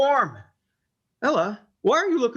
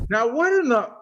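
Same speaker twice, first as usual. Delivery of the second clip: startled. Acted. Husband sees dead mother return.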